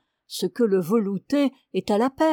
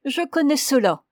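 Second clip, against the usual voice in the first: knowing little smile; 5 semitones higher, 4 dB louder than usual. Acted. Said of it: "Avec un léger sourire".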